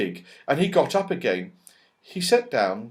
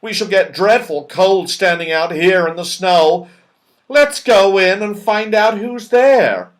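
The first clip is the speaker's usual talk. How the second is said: shivering; 8 semitones higher, 11 dB louder than usual. Acted. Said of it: "shivered Moonface".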